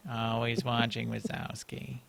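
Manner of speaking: low, slow creepy whisper of a line. Pretend. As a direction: say it like a lurking monster. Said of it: "Max already said it in a creepy voice".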